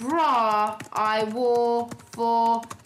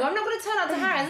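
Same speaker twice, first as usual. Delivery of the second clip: silly posh voice; 5 semitones higher, faster than usual. Pretend. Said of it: "Harrods thing in that voice".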